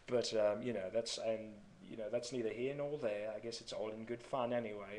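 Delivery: casual put-on British accent. Shown as a demonstration. Vlogger too caught up in the act, British accent. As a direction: keep the mock British accent going while chatting. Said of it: "doing this bloody accent".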